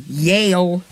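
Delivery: drawled hillbilly Yale; hillbilly accent. Pretend. Player joking about yelling, hillbilly accent. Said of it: "like a hillbilly".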